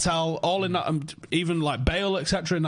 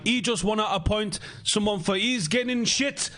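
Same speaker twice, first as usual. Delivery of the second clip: higher-pitched, bad French accent; shit French accent; 6 semitones higher than usual. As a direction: put on a badly faked French accent. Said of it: "shit French accent coming in".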